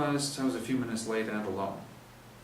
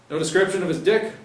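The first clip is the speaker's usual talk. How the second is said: higher and louder, a joking jab; cheeky cop heckling, higher and louder; mocking cop joke; 9 semitones higher, 11 dB louder than usual. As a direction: crack wise at the sergeant. Blowback jokes in briefing.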